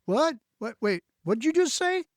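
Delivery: high, startled "what?"; startled reaction. Retold or imitated. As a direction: play someone caught off guard. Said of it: "People will look at you like".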